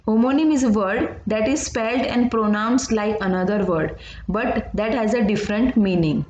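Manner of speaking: textbook definition read out slowly and evenly; slow dictation. Acted. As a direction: read the definition so the class can copy it. (धीमी आवाज़ में परिभाषा लिखवाना)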